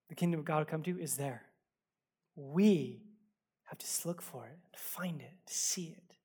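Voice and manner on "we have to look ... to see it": drops much softer, ending in a whisper; fading to a whisper. Real, not acted. Pastor urging the church to look for it, fading to a whisper. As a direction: pull the congregation in by going quiet. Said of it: "closing point sinks to whisper".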